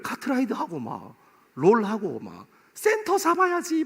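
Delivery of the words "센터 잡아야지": high gamer shout. Retold or imitated. Voicing gamer mid-match.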